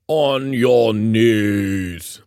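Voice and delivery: ordering. A narrator's reading. Ogbert kicks Joel in the shins, ordering. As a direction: draw out the order menacingly. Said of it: "he kicked Joel in the shins and ordered".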